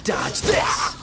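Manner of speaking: forceful attack cry; a shouted taunt mid-attack; battle shout. Acted. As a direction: hurl it like a strike.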